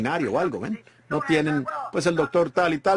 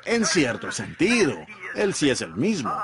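hedging church quote. Retold or imitated. Quoting the church's hedge, mildly doubtful. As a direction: grant it half-heartedly, with a qualifier. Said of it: "Y la iglesia dice".

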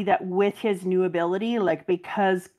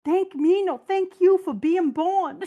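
tearful thanks; 9 semitones higher than usual. Retold or imitated. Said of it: "And he's crying".

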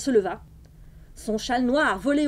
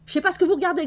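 growl; 6 semitones higher, 3 dB louder, much faster than usual. A narrator's reading. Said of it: "gronda-t-elle".

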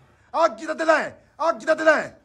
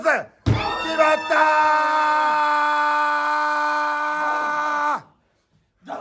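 long stretched ringside call; drawn-out shout; much slower than usual. Real, not acted. Calling the finishing move.

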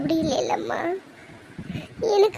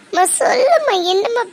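urgent plea; 5 semitones higher than usual. Acted. Daughter pleads urgently.

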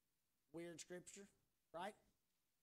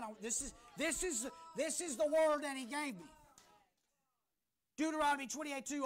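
higher-pitched, driving preacher delivery; energetic preaching; 7 semitones higher, 9 dB louder than usual. Real, not acted. Pastor introducing the word God gave him, energetic preaching. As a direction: preach it with rising urgency.

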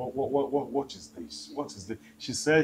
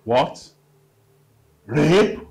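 shocked outburst; 4 semitones higher, 8 dB louder than usual. Acted. Shocked reaction.

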